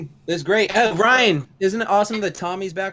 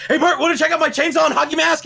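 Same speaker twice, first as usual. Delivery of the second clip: much higher and louder goofy dad voice; a cartoon dad voice, pitched way up and loud; hammed-up Homer; 13 semitones higher, 7 dB louder than usual. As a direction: play the cheerful, oblivious dad offering a knife. Homer voiced again, chainsaw gag.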